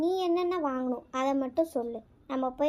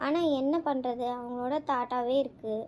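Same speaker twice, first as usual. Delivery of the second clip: tearful; 2 semitones lower than usual. Acted. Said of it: "அழுதுகிட்டே இருக்க".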